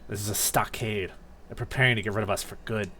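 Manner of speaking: grim rival voice. Acted. Grovyle lines, low voice.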